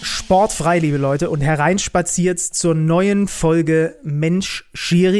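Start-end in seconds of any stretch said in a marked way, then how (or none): 1.3-5.2 slow showman welcome; ringmaster. Acted. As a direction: roll out the welcome like a circus host. Host opens show with circus welcome.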